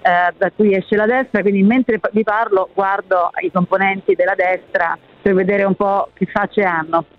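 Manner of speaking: muffled by a face mask; talking through a mask. Real, not acted. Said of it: "parlo con la mascherina".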